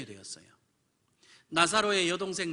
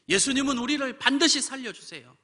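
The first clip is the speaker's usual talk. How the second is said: higher, louder cry on 반드시; preaching shout; 8 semitones higher, 6 dB louder than usual. Acted. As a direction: proclaim 반드시 loud and high. 속삭임 뒤 외침. (크게 외치는 선포)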